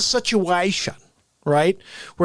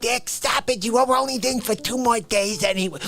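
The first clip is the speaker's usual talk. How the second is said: mock indignation; 3 semitones higher than usual. Acted quarrel with his mother.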